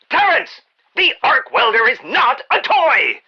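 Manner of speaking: alarmed boss calling to Terrence; calling out a warning. Acted. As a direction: yell across the workshop at a careless worker. Yells at employee off-mic.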